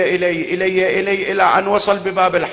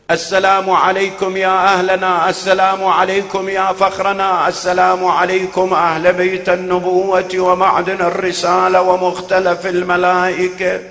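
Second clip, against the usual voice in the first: raised greeting; 3 semitones higher, 3 dB louder than usual. Acted. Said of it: "ثم رفع صوته".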